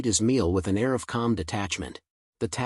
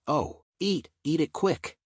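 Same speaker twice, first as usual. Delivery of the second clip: lightly voiced higher-pitched urging; excited shout; 5 semitones higher than usual. A narrator's reading. Rath urging Rayon to eat, mildly excited shout. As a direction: urge eagerly, pitch lifted without extra volume. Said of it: "in excitement as he shouted".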